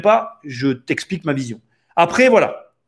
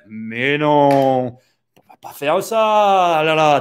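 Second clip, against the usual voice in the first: southern French accent slipping out; much slower than usual. Real, not acted. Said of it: "mon accent ressort".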